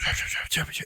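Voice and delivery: rapid stuttered mouth noise; quick run of mock sound-effect noise; imitated noise. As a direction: imitate a quick repeating racket. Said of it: "and it just goes".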